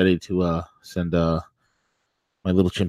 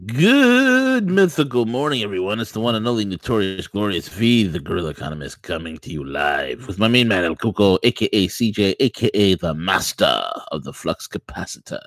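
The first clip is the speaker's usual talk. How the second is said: show host intro. Acted.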